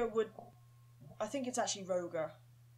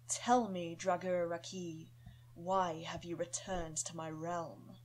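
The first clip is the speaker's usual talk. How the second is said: growled demon wolf. Acted. Demon wolf growling a name at the undead dog. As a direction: drag it out like a rasping wolf demon. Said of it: "Deep, raspy, and sort of growled speech".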